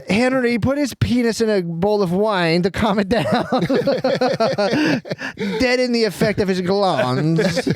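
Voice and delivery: high, hammed-up French accent. Parent ordering a cure for the son, high mock French accent. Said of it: "That's a French".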